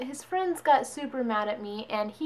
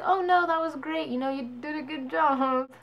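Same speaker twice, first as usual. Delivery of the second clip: fake praise; 4 semitones higher than usual. Fake praise of bad singing.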